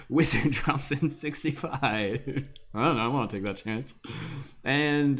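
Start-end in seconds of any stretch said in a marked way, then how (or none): 0.1-1.8 race caller. Acted. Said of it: "commentary, horse racing, announcing".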